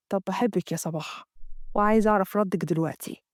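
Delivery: Amgad. Acted. Amgad voiced in the story.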